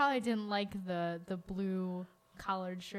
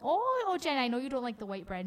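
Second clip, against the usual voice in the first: Grandma Judy impression; 3 semitones higher than usual. Host imitates grandma telling her mom about bread, lightly voiced. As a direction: sing out to Jen like a doting grandma. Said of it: "impression of my grandma".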